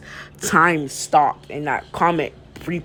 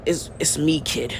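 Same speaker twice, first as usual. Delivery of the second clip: subdued admission; 7 dB quieter than usual. Retold or imitated. Hero admits identity after boy screams.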